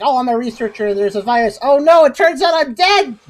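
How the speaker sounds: hammed-up summary, rising on the final reveal; mock spooky-game protagonist. Mocking the spooky game's plot twist, hammed-up alarm. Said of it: "trying to be a spooky game".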